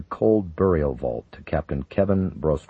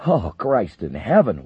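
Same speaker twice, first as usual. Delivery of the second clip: exploding; 5 semitones higher, 5 dB louder, slower than usual. Acted. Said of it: "Wilkinson exploded".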